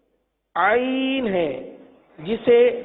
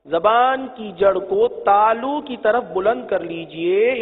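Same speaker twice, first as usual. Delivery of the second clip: slow teaching; slower than usual. Shown as a demonstration. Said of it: "teacher shows tongue placement".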